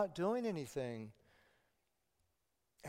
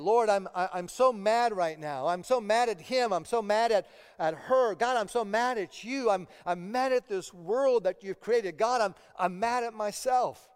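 raised, heated venting to God; angry prayer; 4 semitones higher, 4 dB louder than usual. Acted. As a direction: let God hear how mad you are. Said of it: "I'm talking to God exactly how I'm feeling".

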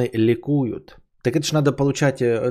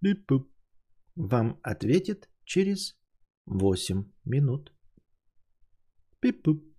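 call center hold message; 5 semitones higher than usual. Pretend. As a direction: play an automated hold line. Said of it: "Я же вам это, эм, экранизировал".

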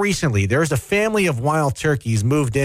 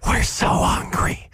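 dopey moose voice; slower than usual. Pretend. Voicing hungry animals.

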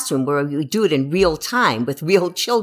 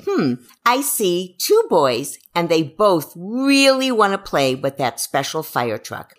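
calm descriptive. Shown as a demonstration. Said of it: "But if you could say".

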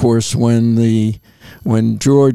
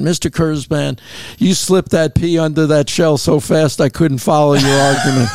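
put-on lightly drawn Southern judge accent; a hint of a deep Southern accent; 3 semitones higher than usual. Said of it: "in deep Southern accent".

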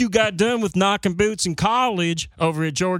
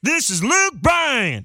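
radio promo shout; 3 semitones higher than usual. Shown as a demonstration. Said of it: "that's how you gotta say it".

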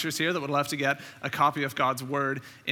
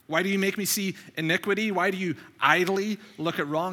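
slightly raised, pleading scripture reading; crying out to God; 3 semitones higher than usual. Retold or imitated. Prophet questioning God in a grim situation, crying out. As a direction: read it as an earnest complaint. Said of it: "he's crying out to God".

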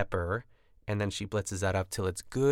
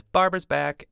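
higher and louder, a bright mock sing-song on "Barbara's back"; imitating Ina; 9 semitones higher, 7 dB louder than usual. Vlogger quoting Ina greeting her returning friend, mock-delighted. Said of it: "the way she said".

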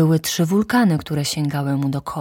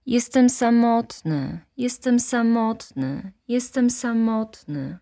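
echo fading; 7 semitones higher than usual. Acted. The echo repeats the prince's loneliness, slow and fading. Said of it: "odpowiedziało echo".

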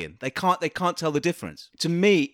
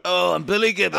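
seaside entertainer; 3 semitones higher, 3 dB louder than usual. Acted. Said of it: "sounds like someone you'd see on Blackpool".

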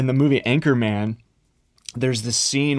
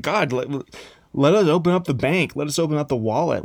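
eager bribe; 4 semitones higher than usual. Acted. People bribing God.

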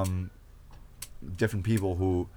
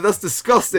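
retold disgust; 9 semitones higher, 7 dB louder than usual. Acting out his disgusted reaction.

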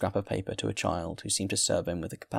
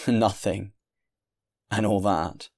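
scoffing, loud, out of a short laugh; laugh, then throw the question out loudly; burst of laughter; 5 dB louder, slower than usual. A narrator's reading. Traveller mocks the landlord's claim of no food, laughing. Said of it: "The man burst out laughing".

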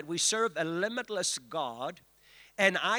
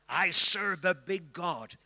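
slow, weighty echo in a hint of African accent; slow echo of the apostle's accent; lightly held African accent; 4 dB louder, slower than usual. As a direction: repeat it with a touch of his African voice. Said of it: "he would say in his deep African voice".

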